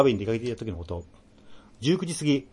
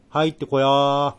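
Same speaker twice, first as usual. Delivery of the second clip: eerie beckoning; 3 semitones higher, 6 dB louder, slower than usual. Acted. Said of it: "imagined ghost invitation".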